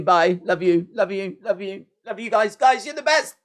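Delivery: mock farewell. Triple H bidding fans goodbye, mock tender fade. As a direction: play a boss waving fans off, fading away.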